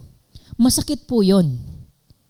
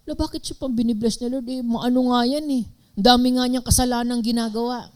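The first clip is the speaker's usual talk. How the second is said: judgmental muttering; 5 semitones higher, 5 dB quieter, faster than usual. Pretend. People judging others' blessings.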